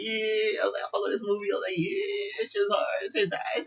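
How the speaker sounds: very high-pitched delighted squeal of words; hammed-up falsetto enthusiasm; mock excitement. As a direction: gush like a thrilled movie fan. Acting own thrilled reaction to film.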